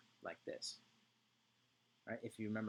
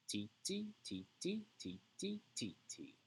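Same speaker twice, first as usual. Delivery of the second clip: high quick ti ti syllables; high titis; 9 semitones higher than usual. Shown as a demonstration. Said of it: "Can you do it with me".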